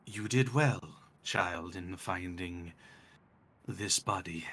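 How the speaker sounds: lightly voiced draconic death god; measured, soft speech with long pauses; Null. God of death praises a child through a skeletal drake, lightly voiced. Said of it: "it sounds like Null".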